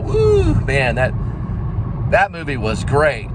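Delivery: mock excited moviegoer yell; thrilled moviegoer. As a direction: whoop like you just left a great film. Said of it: "it makes your stomach feel all".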